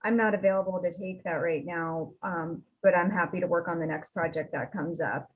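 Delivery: a hint of a calm, polite refusal; understated calm professional no; calm decline. Shown as a demonstration. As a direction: decline it evenly and kindly. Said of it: "You're just calmly saying".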